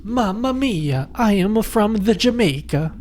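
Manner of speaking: high, hammed-up mock Jamaican accent; a goofy, bad Jamaican accent; Jamaican impression. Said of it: "That's my Jamaican impression or accent".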